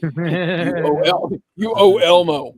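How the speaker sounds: deep raspy puppet voice; deep husky Elmo. Retold or imitated. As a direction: growl it like a gruff Elmo. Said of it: "a deep, deep husky voice".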